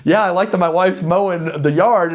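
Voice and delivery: high-pitched comedian quote, loud and amused; Nate Bargatze. Retold or imitated. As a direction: retell the bit high and lively. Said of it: "he says".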